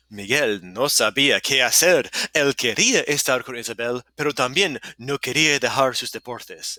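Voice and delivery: lightly dramatized narrator in own register. Acted. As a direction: tell it with a touch of storytelling drama. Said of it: "narrator voice, hold on".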